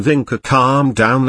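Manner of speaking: gently, slowed calm-down; slow soothing. Acted. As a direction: ease her down slowly. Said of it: "Ami said to her".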